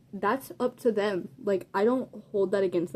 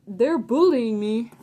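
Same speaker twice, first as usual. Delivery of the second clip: slow, louder imitation of a complaint; mock tattling; 5 dB louder, slower than usual. Kid snitching to the teacher, mock complaining. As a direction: drag it out like a tattletale.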